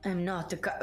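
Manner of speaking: put-on a clumsy stab at Hagen's accent, slightly low; faked Hagen accent. Co-host quoting Hagen's line in a failed attempt at Hagen's accent. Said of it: "I'm ruining the accent for sure".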